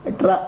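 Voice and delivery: ఎట్రా with a hard retroflex t running into r; demonstrated pronunciation. Shown as a demonstration. Teacher showing how the doubled letter is said, ఎట్రా with hard tr. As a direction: sound out ఎట్రా with its ట్ర cluster. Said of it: "అలా పలకాలి".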